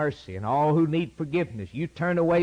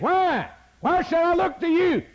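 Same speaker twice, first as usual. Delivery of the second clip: much higher, incredulous mock voice; questioning sinner. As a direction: play the doubter demanding a reason. Voicing the doubting sinner's question.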